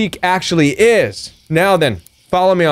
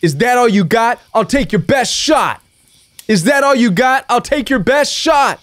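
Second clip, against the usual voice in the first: higher, rising defiant lyric; building song-lyric taunt; quoting a song line; 5 semitones higher than usual. Retold or imitated. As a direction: throw the lyric back as a dare. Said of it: "One of the lines in one of their songs was".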